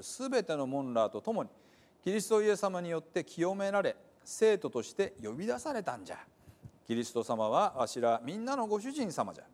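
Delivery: measured reading of the letter in Hiroshima dialect; scripture reading. Acted. Pastor reading Paul's letter to the church, measured reading. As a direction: read it out like the apostle's greeting.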